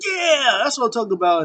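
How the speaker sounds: hammed-up cheer. Brody Lee cheering Sue's throw. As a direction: gloat in character. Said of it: "He was like".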